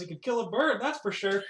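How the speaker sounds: teasing drinker. Acted. Chisadri mocking the flexing fighter mid-drink, teasing. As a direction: toss it out boldly mid-drink. Drinking character teases the warrior.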